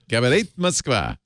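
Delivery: Russian announcer tone; Russian radio announcer. Acted. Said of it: "We're all doing bad Russian accent".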